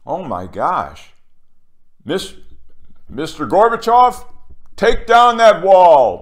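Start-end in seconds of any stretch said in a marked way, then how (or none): 2.0-6.2 loud, high, slow Reagan demand; Reagan impression. Imitating Reagan ordering Gorbachev, loud and slow. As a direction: proclaim it like a president at the wall. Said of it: "Ronald Reagan said".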